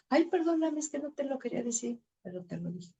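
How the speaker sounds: high, fast, whiny sorry that fades away; mock whiny apology. Wife mocking her own halfhearted apology, high and fast. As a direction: ham up a flimsy excuse.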